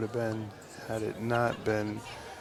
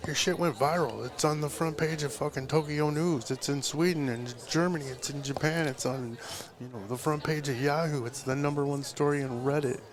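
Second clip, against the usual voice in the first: higher-pitched, rolling list of astonishing news; excited retelling; 4 semitones higher than usual. Retold or imitated. Assistant telling the tattooist he went viral, excited. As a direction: reel off each new place with mounting amazement.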